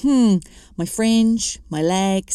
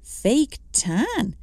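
incredulous echo, pitched up; a light incredulous repeat; disbelieving; 4 semitones higher than usual. Acted. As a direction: question it in mild disbelief.

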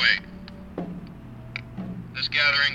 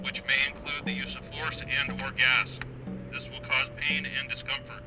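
blasting sound cannon. Real, not acted. Police dispersal order over loudspeaker.

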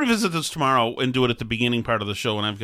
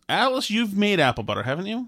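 higher, prim and condescending; condescending yacht bunny voice; 5 semitones higher than usual. Acted. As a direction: talk down to her like a snooty yacht wife. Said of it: "You use your condescending, uh, freaking, uh, yacht bunny voice".

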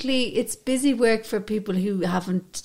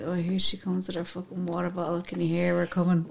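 mock sneer; 5 semitones lower, 4 dB quieter than usual. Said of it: "you'd be like".

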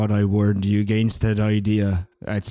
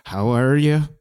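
man doing a woman's voice. Acted. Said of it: "impression of your mom".

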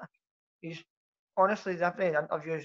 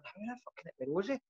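much softer, disbelieving under the breath; incredulous mutter; 10 dB quieter than usual. Retold or imitated. Fan reacting to the manager's rosy claim, quiet disbelieving mutter. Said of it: "and you're going".

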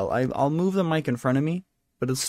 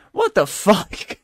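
slow, loud, higher-pitched disbelief; appalled outburst; 4 semitones higher, 6 dB louder, slower than usual. Real, not acted. Host reacting to Sean Penn's statement, appalled. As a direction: stretch it out, aghast.

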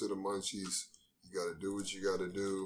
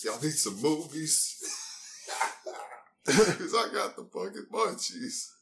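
slow, rising to a loud high shout; hammed-up hustler hawking movies; mock street hustler call; 6 semitones higher, 5 dB louder than usual. Hamming up munchies street hustler.

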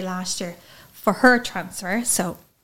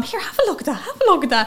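retold excited dad; 8 semitones higher, faster than usual. Dad showing mum the scan.

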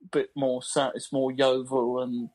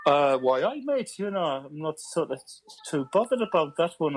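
tentative Geordie impression; lilting Geordie, jumping up in pitch; Newcastle accent. Shown as a demonstration. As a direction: have a go at chatty Newcastle.

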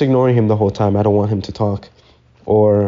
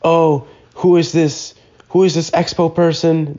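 higher-pitched mock of an angry coworker; mock indignant; 6 semitones higher than usual. Cook complaining about the expo person, mock indignant. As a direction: imitate his griping, pitched up. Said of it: "he got all mad".

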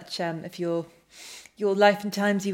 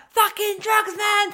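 high mock stoner drawl; hammed-up stoner saying it; 11 semitones higher, 4 dB louder, slower than usual. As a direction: play a dazed druggie, pitched up.

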